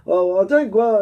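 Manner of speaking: halting, rough stab at a German accent; attempted German accent. Shown as a demonstration. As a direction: feel your way into a shaky German accent. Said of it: "do a German accent".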